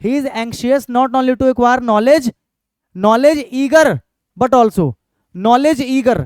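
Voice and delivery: very slow word-by-word reading; slow board-reading voice; slow dictation. Shown as a demonstration. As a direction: read the example again slowly. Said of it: "तो देखो क्या बन जाएगा".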